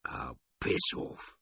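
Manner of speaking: slow whispered croak; whispered hungover dismissal; croaked brush-off. Acted. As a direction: rasp it out, too weak to shout. Hungover man snaps back.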